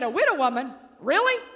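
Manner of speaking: incredulous, with "Really?" leaping up; sharp disbelief. Retold or imitated. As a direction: scoff at the idea of a widow woman. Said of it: "in my analytical mind, I would have said".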